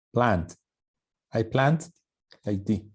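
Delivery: Planned with a final d sound; correct planned. Shown as a demonstration. Teacher correcting planned for the class. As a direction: finish planned on a d. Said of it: "hay que tener cuidado".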